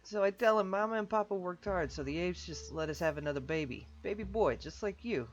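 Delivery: boisterous voiced game character; jovial character voice. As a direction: greet an old pal with big cheer. Anatoly story voice.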